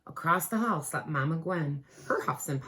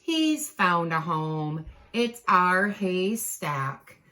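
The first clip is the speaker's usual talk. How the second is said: slow, louder, smiling; satisfied grin; 2 semitones higher, 5 dB louder, much slower than usual. Acted. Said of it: "grinned and looked right back".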